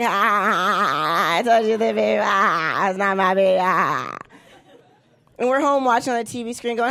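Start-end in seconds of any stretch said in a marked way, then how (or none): 0.0-4.2 celebrating guy. Retold or imitated. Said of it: "doing his little dance like".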